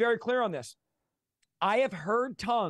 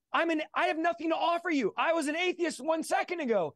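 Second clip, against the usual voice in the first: incredulous protest; 9 semitones higher than usual. Retold or imitated. Protesting his unworthiness to God.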